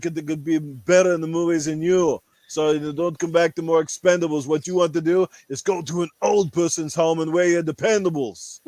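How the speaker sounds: put-on Austrian accent, Arnold style. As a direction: growl it out like the action star. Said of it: "Ask Arnold".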